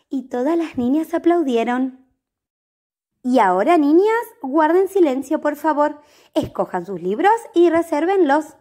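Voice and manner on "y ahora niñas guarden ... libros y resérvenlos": firm teacher. Acted. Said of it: "ordenó la maestra".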